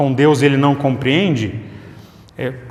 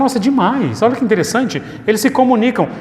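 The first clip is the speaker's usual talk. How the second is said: much higher, excited marvelling; delighted wonder; 7 semitones higher than usual. Retold or imitated. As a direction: gasp with delight at the foreign speech. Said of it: "aí você fala".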